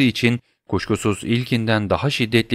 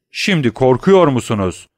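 scornful taunt; 4 semitones higher, 5 dB louder than usual. Acted.

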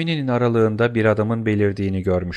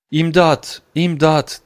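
higher-pitched, mildly raised alarm call; cry for help; 6 semitones higher, much slower than usual. A narrator's reading. Mademoiselle Darmilly ringing for help, understated alarmed cry. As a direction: call for help with some restraint. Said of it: "diye bağırdı".

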